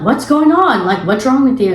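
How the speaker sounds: imitating alarmed guy. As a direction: act out his baffled demand, pitch falling. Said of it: "he's like".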